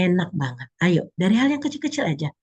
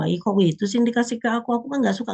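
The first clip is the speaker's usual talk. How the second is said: whiny complaint; 6 semitones higher, faster than usual. Pretend. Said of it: "kita nggak fokus ke".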